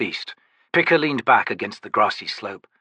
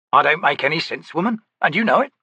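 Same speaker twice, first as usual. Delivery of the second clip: growling soldier; 7 semitones higher than usual. Acted. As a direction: complain like a sore grunt.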